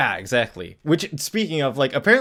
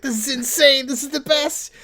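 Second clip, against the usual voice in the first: put-on much higher giddy kid voice; thrilled kid; 13 semitones higher, 3 dB louder than usual. Fan voicing Freddy thrilled at the money, high giddy voice. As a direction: gush with delight. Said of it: "And Freddy's like".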